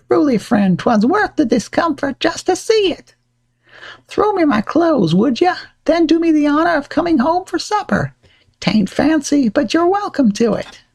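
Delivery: high, jolly colonial voice; old-timey gentleman voice. Acted. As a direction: chuckle and offer supper warmly. Ben laughs and invites supper.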